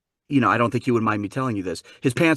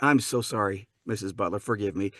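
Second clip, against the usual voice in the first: softer, lower mock-contrite voice; sheepish apology; 4 semitones lower, 5 dB quieter than usual. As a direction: confess meekly to the mother. Confessing the hoax to the mother.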